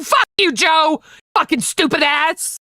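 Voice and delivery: high, shouted pretend insult; hammed-up angry shout; mock fight. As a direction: playfully blow up at your co-host. Staging a mock fight with co-host.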